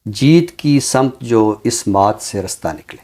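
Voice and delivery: measured, unhurried verse reading; poem recitation. Acted. Poet reciting his verse to the show host, measured and unhurried. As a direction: recite the couplet with weight on each line.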